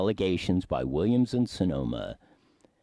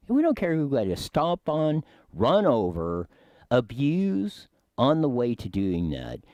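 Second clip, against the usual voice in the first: put-on hillbilly accent; 7 semitones higher, 3 dB louder than usual. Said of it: "giving my hillbilly dialect of it".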